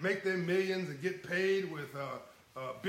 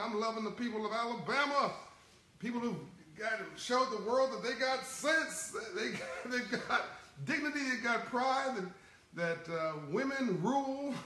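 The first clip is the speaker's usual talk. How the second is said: excited praise; 4 semitones higher than usual. Real, not acted. To his livestream viewers, cheering Alabama voters, high and elated.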